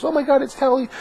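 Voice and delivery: very high falsetto squeal; mock fan excitement. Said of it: "and then tell everyone else".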